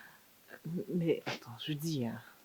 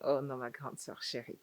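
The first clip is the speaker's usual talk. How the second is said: mock sweet; 13 dB quieter than usual. Sweet-talking big sister.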